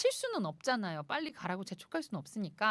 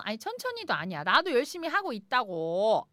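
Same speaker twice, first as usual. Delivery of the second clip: ordinary talk, nothing marked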